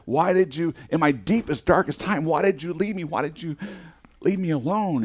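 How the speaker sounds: lightly acted high plea, why did you leave me; pleading complaint. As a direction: plead with God in hurt.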